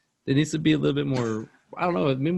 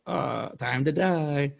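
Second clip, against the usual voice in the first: a hint of a cartoon killer, slow; slow, drawn-out quoted threat; slow mock villain line; much slower than usual. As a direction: drag it out slow and menacing, lightly. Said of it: "where he goes".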